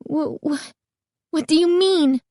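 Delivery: high, stammering in shock; frightened girl stammering at the owner. A narrator's reading. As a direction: stumble over the first words. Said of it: "Carly Beth stammered".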